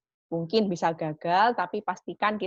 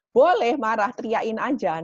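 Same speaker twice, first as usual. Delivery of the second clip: louder, higher emphatic answer; emphatic permission; 4 semitones higher, 6 dB louder than usual. Shown as a demonstration. Teacher tells parents anger is fine, louder. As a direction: stress that anger is allowed.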